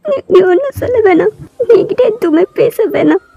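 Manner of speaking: high, hurt accusation; upset girl confronting her cousin; jealous outburst. Acted. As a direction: accuse him through tears.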